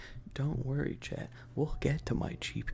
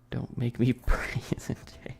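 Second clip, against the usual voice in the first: laughing whisper; 5 dB louder, slower than usual. Acted. Whispered joke to chat.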